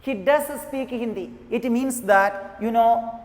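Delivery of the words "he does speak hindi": emphatic "does" before "speak Hindi"; stress on DOES. Shown as a demonstration. Teacher repeating the emphasized example, stress on "does". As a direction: put the weight on "does". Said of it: "we emphasized the sentence".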